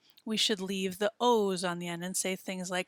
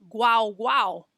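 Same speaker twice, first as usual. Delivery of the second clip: loud barked guau, guau; dog bark in Spanish; 6 dB louder than usual. Shown as a demonstration. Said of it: "they say that a dog says".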